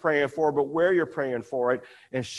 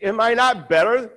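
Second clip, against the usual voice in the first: a hint of a baffled husband, pitched up; husband quizzing his tearful wife, mildly; husband's question; 6 semitones higher than usual. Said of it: "He says".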